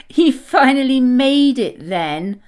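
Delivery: loud teasing exclamation; gleeful exclamation. Acted. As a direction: crow over a late friend. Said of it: "exclaimed Twiggy, giggling".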